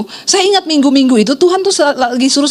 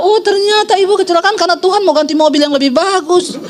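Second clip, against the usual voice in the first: high-pitched mock realization; exaggerated "oh, so that's why", pitched up; imitating snide critic; 4 semitones higher than usual. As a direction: parody a busybody's catty dig. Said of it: "itu dia langsung bilang".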